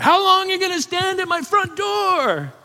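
high, strained holler from afar; imitated yell. Homeowner yells from around the side at repairmen, mock angry yell. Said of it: "someone yells from around the side".

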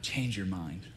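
soft, low entreaty; quiet plea. Retold or imitated. Moses pleading with God, quietly. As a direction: plead gently, dropping the voice. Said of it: "Moses pleaded with God".

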